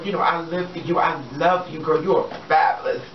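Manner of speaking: usual speaking voice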